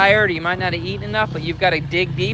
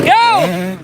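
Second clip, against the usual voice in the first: loud start call across the track; sharp loud call to ride; shouted go; 13 semitones higher, 5 dB louder than usual. Real, not acted. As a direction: yell it so the rider hears. Calling rider to start.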